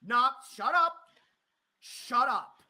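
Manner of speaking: sharp shut up; angry interruption; snapping. Real, not acted. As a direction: cut him off hard. Cutting off the caller angrily.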